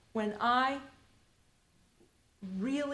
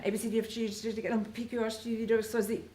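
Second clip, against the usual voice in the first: fast alphabet; much faster than usual. Shown as a demonstration. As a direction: rattle the letters off quickly. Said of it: "So now say it as fast as you can".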